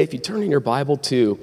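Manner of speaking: real voice crack mid-sentence; accidental pubescent squeak. Real, not acted. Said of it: "my voice just cracked".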